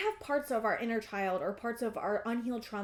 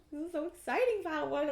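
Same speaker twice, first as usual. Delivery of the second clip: thrilled outburst, a touch higher; excited; 5 semitones higher than usual. Real, not acted. Reader bursting with excitement for pile one, thrilled. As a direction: let the excitement spill out. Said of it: "so excited for you".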